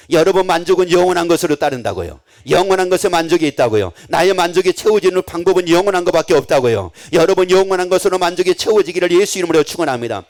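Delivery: loud ringing declaration to the congregation; forceful preaching. Acted. Preacher to congregation, loud emphatic proclamation. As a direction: proclaim it to the whole church.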